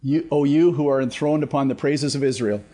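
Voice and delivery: steady scripture reading voice; psalm reading. Acted. Pastor reads Psalm twenty-two to the class, steady. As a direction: read the psalm with gravity.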